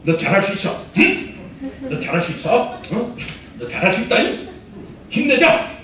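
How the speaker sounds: pep talk demo. Shown as a demonstration. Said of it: "이렇게 막 입으로 선포를 해".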